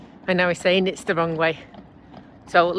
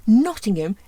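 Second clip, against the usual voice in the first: surprised gasp; 4 semitones higher, 5 dB louder than usual. Pretend. Mock gasp at destination.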